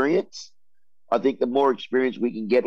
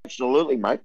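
crunching on breakfast; faster than usual. Real, not acted. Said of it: "Can you hear me crunching on my brekkie?".

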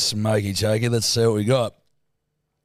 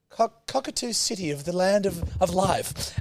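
halting, lightly put-on voice fumbling an answer; lightly mocking impression of a co-host guessing; mimicking co-host; 4 semitones higher, 4 dB quieter than usual. Teasing co-host about playing categories with mum, mock fumbling. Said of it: "and you'd be like".

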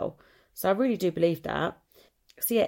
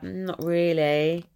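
slow, drawn-out "not really"; slow mock confrontational answer; frosty reply; 3 dB louder, slower than usual. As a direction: draw it out to start a mock row. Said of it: "where we'd row someone".

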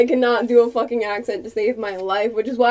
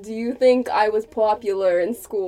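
put-on Boston accent; 2 semitones lower than usual. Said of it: "a good old Boston accent".

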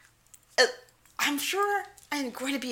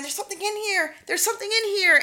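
much higher, spooked repeat; mock spooked; 10 semitones higher, faster than usual. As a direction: sell the panic of the ghost hunters. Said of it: "then they kept going".

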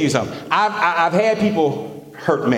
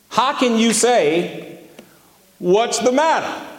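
Micah's protest; 7 semitones higher than usual. Acted. Micah voiced from scripture.

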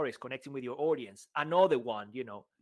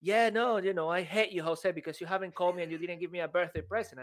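mock grumpy friend; 4 semitones higher than usual. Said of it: "And then Elliot says".

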